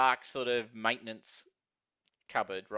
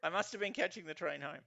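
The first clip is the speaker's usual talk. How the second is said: higher, softer voice; bewildered man; 4 semitones higher, 7 dB quieter than usual. Acted. Confused man explaining himself to platform security, bewildered. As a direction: work it out uncertainly as you speak.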